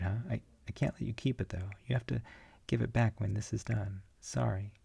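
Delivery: a hint of a chummy guide; character voice. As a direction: play the cheerful guide talking to you. Panel character addresses the reader.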